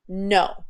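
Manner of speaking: a quiet, definite "No" with no lift; final no. Shown as a demonstration. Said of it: "It was final".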